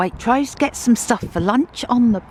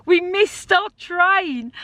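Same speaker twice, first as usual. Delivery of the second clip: high, breathless excited retelling; 9 semitones higher than usual. Real, not acted. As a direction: bubble over with excitement.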